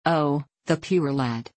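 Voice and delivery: slow, mournful wail. Acted. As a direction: draw out the grief slowly. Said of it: "she wailed".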